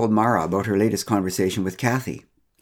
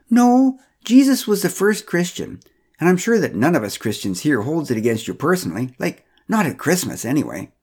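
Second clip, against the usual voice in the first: insistent Pamela; 5 semitones higher than usual. Acted. Pamela correcting Joseph, high and self-assured. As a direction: insist on it, pitched high and sure.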